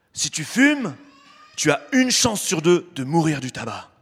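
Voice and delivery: gruff imitated smoker's voice; smoker's rasp. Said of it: "Avec leur petite voix de fumeur".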